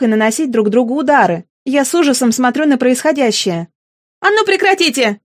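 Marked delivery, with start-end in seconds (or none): 4.2-5.2 raised high, a pitched-up cry to stop the fight; shout. Acted. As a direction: yell at the boys to stop. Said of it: "кричит во весь голос". (крик во весь голос)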